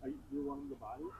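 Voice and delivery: quick nervous whisper; hushed whisper. Real, not acted. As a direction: whisper it fast and tense. Asking the spirit box, hushed.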